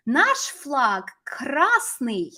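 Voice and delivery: slow, lightly voiced boy's declaration; little boy pointing. Russian boy pointing out the flag to his Czech dad, lightly voiced boy. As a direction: lightly imitate a boy announcing something, word by word. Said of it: "boy's pointing to the flag and saying".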